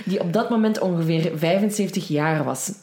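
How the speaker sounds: reading on through a giggle at the irony; laughing while reading. Real, not acted. Host reading a listener's mail to her co-host, laughing. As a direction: laugh breaking through the words, pitch jumping up.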